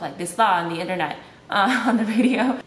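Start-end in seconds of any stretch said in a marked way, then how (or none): 0.0-0.5 quick Malaysian English with "lah" at the end; Malaysian accent. Shown as a demonstration. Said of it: "instead to talk".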